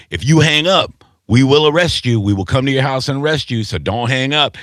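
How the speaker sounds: mock cop threat. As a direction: play the scam cop barking a threat about hanging up. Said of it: "he kept telling me".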